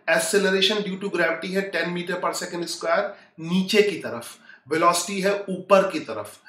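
slow, deliberate explanation; measured teacher pace for struggling students. Real, not acted. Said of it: "slow हो जाता हूं".

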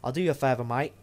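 mock British accent, lightly put on; bad British accent. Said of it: "that's a really bad impression slash accent".

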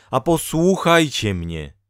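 high, loud appeal to be heard; crying out. A narrator's reading. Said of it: "krzyknęła wreszcie kobieta". (głośne, wysokie wołanie o posłuch)

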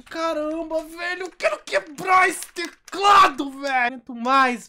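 high, loud, slow raging yell; furious shout. Real, not acted. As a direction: scream it like you'll break the keyboard. Rage at losing, wants to smash. (grito furioso, agudo e alto)

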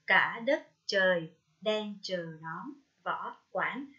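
put-on slow, measured model reading of a children's poem; poem recitation. Shown as a demonstration. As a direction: recite slowly, pausing after each short line. Cô đọc mẫu bài thơ. (đọc thơ diễn cảm, chậm rãi)

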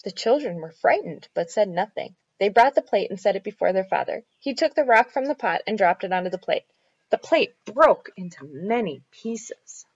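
put-on measured storytelling for children; story narration. A narrator's reading. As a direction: read it out clearly like a picture book. Reads a children's story aloud.

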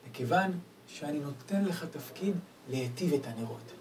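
ordinary talk, nothing marked

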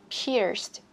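"Pierced" with the written D popped as a T; released final consonant. Shown as a demonstration. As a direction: release the last sound of "Pierced" clearly. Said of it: "Bật chữ D này ra cho mình". ("Pierced" bật rõ âm cuối)

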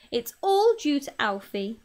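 slightly breathless. Acted. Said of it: "slightly breathless".

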